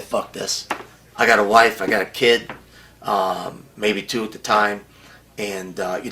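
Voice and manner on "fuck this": muttered curse. Retold or imitated. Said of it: "I said".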